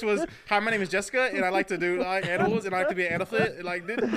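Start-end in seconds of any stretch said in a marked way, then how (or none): 0.5-3.4 Jessica voice. Retold or imitated. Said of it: "wasn't that the Jessica voice?".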